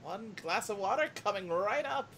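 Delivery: cheerful hostess grandma; old lady voice. Acted. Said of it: "This is my old lady voice".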